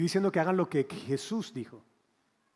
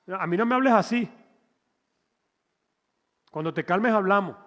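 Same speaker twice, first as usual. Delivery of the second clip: mock offended husband; 3 semitones higher, 5 dB louder than usual.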